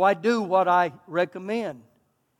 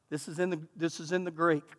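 much softer confiding aside; quiet aside; 5 semitones lower, 10 dB quieter than usual. Real, not acted. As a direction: lean in and let them in on a joke. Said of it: "aside, joke".

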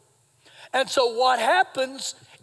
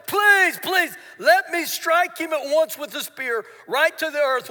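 pleading shout; 2 semitones higher than usual. Retold or imitated. Eager soldier begging David to let him strike. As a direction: beg hard to be allowed to strike. Abishai begs to strike Saul.

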